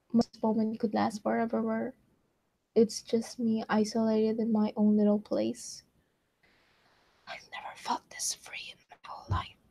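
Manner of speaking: soft whispered read-aloud. Acted. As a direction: hush it like a secret diary. Quiet whispered reading.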